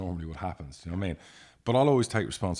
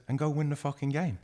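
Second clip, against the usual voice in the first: much higher, pushing go win the fucking game hard; emphatic retold order; 8 semitones higher than usual. Chairman urging his fretting manager to win, high emphatic push. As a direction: fire up the manager with a raised, urgent push.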